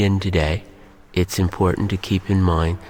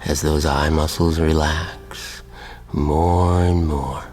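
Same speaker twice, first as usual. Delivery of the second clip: measured hypnotist voice with long pauses; hypnotic induction; 2 semitones lower than usual. Real, not acted.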